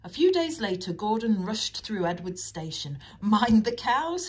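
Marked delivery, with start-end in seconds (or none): 3.2-4.3 loud, high, drawn-out tease; jeering storybook call; laughing taunt. A narrator's reading. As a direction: call out a mocking warning, slowly. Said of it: "he laughed".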